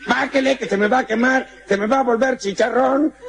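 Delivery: high, desperate call upward; pleading fireman. Acted. Fireman pleading again with the American, high and desperate.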